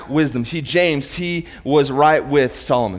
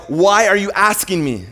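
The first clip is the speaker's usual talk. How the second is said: indignant rebuke; 6 semitones higher, 4 dB louder than usual. Retold or imitated. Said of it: "he doesn't look at us when we ask him like".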